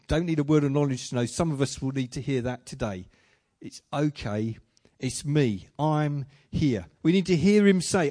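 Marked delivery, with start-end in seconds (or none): 3.6-6.9 low, unhurried comfort with pauses; gentle reassurance. Acted. Preacher giving Jesus' comfort to the congregation, gently reassuring.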